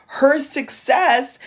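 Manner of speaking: slow, choking on emotion; words catching in the throat, slowly; real emotion welling up mid-sentence; choked up. Real, not acted. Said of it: "excuse me, I'm getting emotional".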